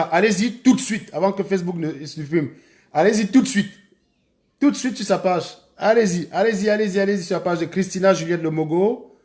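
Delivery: high, loud urgent call to hurry; rally the viewers, push them to hurry. Real, not acted. Streamer urging viewers to rush to the page, loud and urgent.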